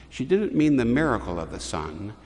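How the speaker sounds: usual speaking voice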